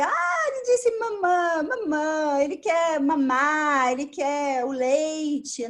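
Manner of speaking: a hint of a mother decoding baby talk; caregiver interpreting baby. Shown as a demonstration. Caregiver to baby, gently naming what he wants, mild voice. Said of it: "pra dizer".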